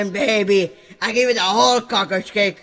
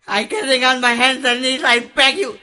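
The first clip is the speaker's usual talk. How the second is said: begging; 4 semitones higher, 3 dB louder than usual. Acted. Begging on knees.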